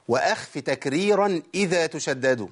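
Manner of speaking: slow chanted recitation of a didactic poem line; recited verse. Shown as a demonstration. Teacher quoting Ibn al-Jazari's verse in slow recitation. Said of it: "الشيخ بيقول".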